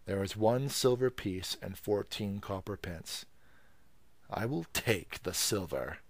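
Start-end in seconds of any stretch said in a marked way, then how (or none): 4.3-6.0 coolly. Acted. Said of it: "said the gate man coolly".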